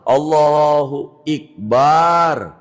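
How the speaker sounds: Allahu Ikbar slow, with i instead of a; wrong kasrah. Shown as a demonstration. Teacher demonstrating the wrong kasrah reading. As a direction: say Ikbar with an i sound. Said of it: "diganti hamzahnya kasroh".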